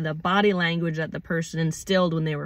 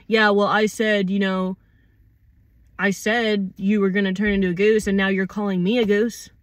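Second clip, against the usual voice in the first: accusatory; 5 dB louder than usual. Acted. Acted accuser pushing back.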